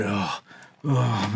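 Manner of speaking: imitated puff of exhaustion; out-of-breath groan. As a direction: act out being winded on a treadmill. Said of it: "just got out of breath".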